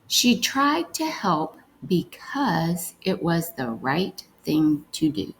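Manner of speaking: carefully slowed reread of the sentence; slow reading. Shown as a demonstration. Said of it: "let's read".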